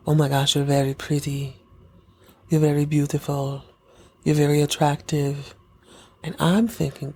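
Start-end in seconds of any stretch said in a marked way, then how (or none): 0.1-5.5 hint of a man in a trance, pausing between compliments; lightly voiced creepy admirer. Acting Peter's trance-like compliments.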